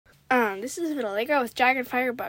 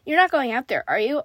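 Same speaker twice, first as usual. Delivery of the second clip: louder, anxious read-aloud question; mildly frightened; 2 semitones higher, 8 dB louder than usual. A narrator's reading. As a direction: press the question with a touch of fear.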